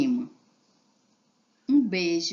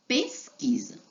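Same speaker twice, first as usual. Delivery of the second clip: whispered title word; 10 semitones higher, slower than usual. Acted. Teacher announcing the next activity, whispered. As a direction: breathe the heading out as a whisper.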